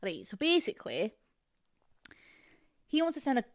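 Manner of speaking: put-on halting Scottish accent; attempted Scottish accent. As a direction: practise a rough Scottish accent word by word. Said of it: "I'm gonna go back to Scotland".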